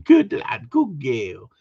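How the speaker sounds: high-pitched dog praise, dropping away; high vocal praise. Shown as a demonstration. Handler praising a working dog, high praise voice. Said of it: "There's nothing wrong with going".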